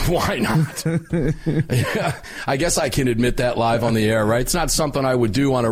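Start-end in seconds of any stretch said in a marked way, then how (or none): 0.0-2.2 laughing through the words; chuckling it out. Real, not acted. Laughing at the whiskey plan.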